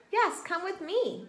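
high, lightly voiced monkey; wheezy monkey. A narrator's reading. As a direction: invite them along with a slight wheeze. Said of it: "wheezed the monkey".

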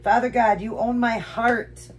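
high, loud, slow plea to God; emotional prayer. Real, not acted. Woman prays aloud to Father God, emotional. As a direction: pray it out slowly, overcome with feeling. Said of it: "I got a little emotional here".

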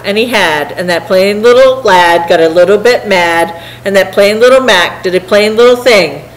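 lively, rhythmic rhyming read-aloud; story narration. A narrator's reading. Reader telling a turtle tale to listeners, rhythmic narration. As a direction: read it to children in a bouncing verse rhythm.

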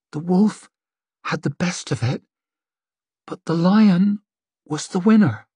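rough, hollow seer in a trance; strange hollow voice. Acted. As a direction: speak a vision from far away. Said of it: "voice sounded strange, rough, hollow".

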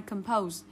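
Compose said com-POSE; stress on second syllable. Shown as a demonstration. Teacher repeating the model for students, Compose as com-POSE. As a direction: reduce the start of Compose, land on POSE. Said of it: "Nhấn vào trọng âm âm tiết số hai".

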